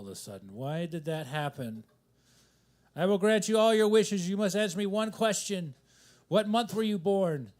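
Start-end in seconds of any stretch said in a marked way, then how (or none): 2.9-7.5 higher, lightly voiced genie proclamation; mythical genie. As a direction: pose it like a genie granting wishes. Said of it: "talking like a mythical genie".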